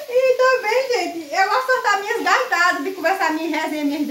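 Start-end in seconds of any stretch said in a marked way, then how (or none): none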